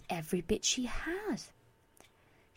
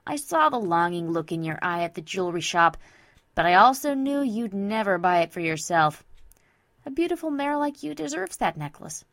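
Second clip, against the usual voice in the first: louder, confident best-friend voice; brash Vinyl, affectionate; 2 semitones lower, 5 dB louder than usual. Acted. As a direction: insist fondly that she deserves it.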